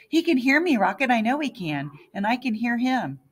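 high loud insisting; insistent shout. A narrator's reading. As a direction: shout your conviction at your brother. Mibs insists, yelling in hospital.

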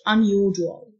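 "unusual" said the British way; British-English teacher's model of "unusual"; British pronunciation. Shown as a demonstration. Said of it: "النطق البريتش".

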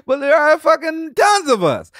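high, loud, laughing words; laughing while talking. Real, not acted. Comedian laughing about all the other comics, talking through laughter.

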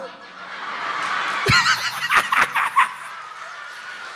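big laugh at his own punchline; high laughing shout. Real, not acted. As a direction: burst into a high whooping laugh.

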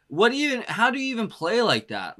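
high, incredulous wonder; can't believe how he plays it; amazed disbelief. Real, not acted. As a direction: pitch shooting up in amazement. Amazed by the pianist.

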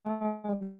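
choppy call audio cutting out; broken-up internet call sound; corrupted glitchy audio. Real, not acted. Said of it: "your audio is cutting out just a little bit".

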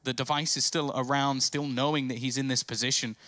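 lively esports play-by-play call; esports caster. Real, not acted. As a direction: build tension as the clutch unfolds. Live play-by-play, rising tension.

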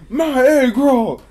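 drawn-out high yell; retold loud holler. Retold outburst to a room.

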